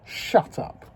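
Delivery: breathy, unvoiced "shut up"; whispered shut up. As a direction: hush the amygdala with a whisper. Telling the amygdala off.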